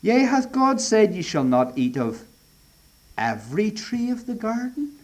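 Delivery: "every" leaned on in the serpent's question; stress on every. Acted. Preacher quoting the serpent, stressing "every". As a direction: weigh the word "every" in "every tree". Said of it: "The all-important word there, my friends, is every".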